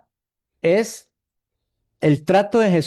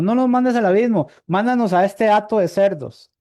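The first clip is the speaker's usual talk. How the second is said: demons pleading; 5 semitones higher than usual. Retold or imitated. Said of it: "les estaba pidiendo".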